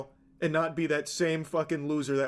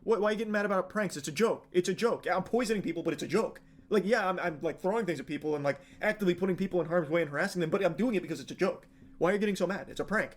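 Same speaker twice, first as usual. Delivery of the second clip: fast, lightly mocked indignant protest; mock prankster excuses; faster than usual. Prankster arguing with angry critics, mildly mock indignant. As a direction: rattle off excuses like an aggrieved prankster.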